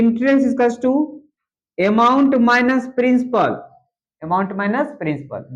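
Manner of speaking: each word spaced out very slowly for copying; slow classroom dictation pace. Shown as a demonstration. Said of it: "teacher dictates formula slowly".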